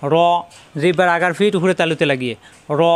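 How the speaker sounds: র said full with a rounded "aw", no aa; thick heavy r. Shown as a demonstration. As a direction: make র a heavy r, tongue tip to palate. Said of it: "র মোটা হরফ". (র, মোটা করে আকার ছাড়া)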